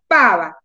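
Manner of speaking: "pava" with a long, strong PA; emphatic, falling "pava"; exaggerated stressed syllable. Shown as a demonstration. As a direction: punch PA and drop on VA in "pava". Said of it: "exageren y digan".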